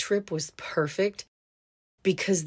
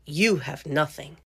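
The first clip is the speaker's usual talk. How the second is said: deadpan; 2 semitones lower than usual. Retold or imitated. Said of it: "looked my mom dead in the face".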